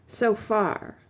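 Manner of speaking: "So far" set apart with a pause after it; cruel emphasis on "So far". A narrator's reading. Woman answering her suitor's love, cruel emphasis on "So far". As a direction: lean pointedly on the words "So far". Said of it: "with a cruel emphasis on the words".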